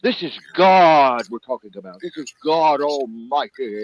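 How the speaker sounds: high, loud indignant witness; a mock heated believer; imitating angry preacher. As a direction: play the offended zealot defending God. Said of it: "He was like".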